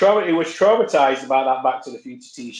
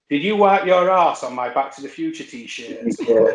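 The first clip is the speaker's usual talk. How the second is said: slow, higher, incredulous accusation; slowly spelled-out mock outrage; mock indignation; 4 semitones higher than usual. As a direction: act out an appalled friend, laugh creeping in. Mock-indignant reading of friend's message.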